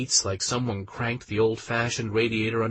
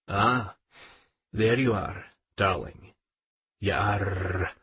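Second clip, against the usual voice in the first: gruff; 3 semitones lower, slower than usual. Acted. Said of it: "Auden's voice is gruff".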